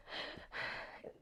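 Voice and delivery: shaken, wordless breaths; choked-up panting. Retold or imitated. Actress shaken after fight scene, choked-up breaths. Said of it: "choked up and roughed up".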